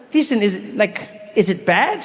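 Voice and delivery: put-on boy asking his friend about lunch; the speaker's younger self asking. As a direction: ask gently as a small boy. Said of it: "I was like".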